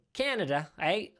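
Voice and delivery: badly faked Canadian accent, lightly done; terrible Canadian accent. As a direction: tack on a half-hearted Canadian "eh". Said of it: "that was terrible Canadian accent".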